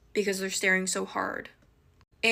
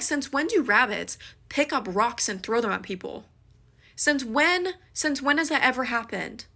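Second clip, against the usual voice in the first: loud, higher, exasperated rant; lost it on him; 4 semitones higher, 3 dB louder than usual. Retold or imitated. Yelling at her date after he blames a rabbit, furious. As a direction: let him have it, outraged. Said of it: "I legitimately lost my mind on him".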